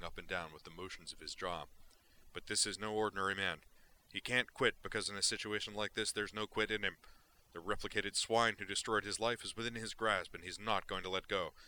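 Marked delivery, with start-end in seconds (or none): 2.3-11.5 loud, relentless rant of a wild reporter; fired-up gonzo journalist. Acted. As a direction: hammer it out like a manic columnist. Duke dictates his story.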